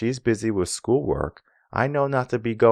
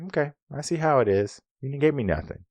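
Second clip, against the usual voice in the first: higher-pitched put-upon partner; mock wounded complaint; 8 semitones higher, faster than usual. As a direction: lightly act out a hurt, hangry reproach. Acted hungry, upset partner's complaint.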